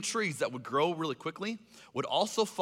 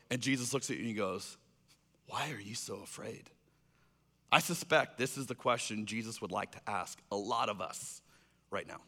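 low, soft, solemn storytelling; hushed; 7 semitones lower, 8 dB quieter than usual. Real, not acted. Preacher has listeners imagine staring at Jesus, hushed. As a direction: drop low and quiet to set the moment.

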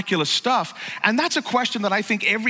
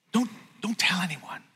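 whisper; 5 dB quieter than usual. Retold or imitated. Jesus asks to keep secret.

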